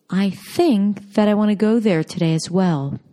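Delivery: "think" and "go" stretched and stressed in "I think that I want to go there today as well", the rest reduced; native English rhythm. Shown as a demonstration. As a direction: native stress-timed rhythm, falling at the end. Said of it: "when spoken by native speakers".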